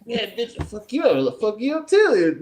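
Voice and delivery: hammed-up "I'll fuck you up", dragged out; retold drunk threat.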